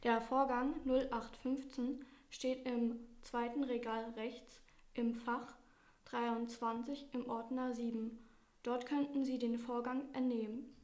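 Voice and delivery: flat robot voice reading directions; monotone AI assistant giving directions. Acted.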